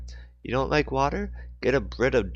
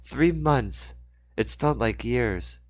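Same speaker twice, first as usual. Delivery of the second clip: raised voice; 3 semitones higher, slower than usual. Acted. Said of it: "She raised her voice to repeat".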